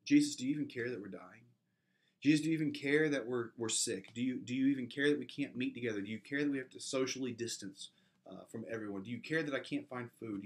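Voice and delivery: loud pleading questions that build; desperate prayer. Acted. Pastor voices his listeners pleading with Jesus, desperate.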